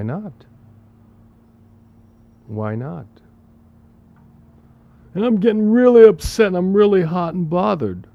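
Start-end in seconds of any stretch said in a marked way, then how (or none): 5.1-8.1 higher, faster, loud mock fretting; mock worked-up. Teacher mimics someone working himself into a lather over the news, fast and high. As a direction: ham up the agitated complainer.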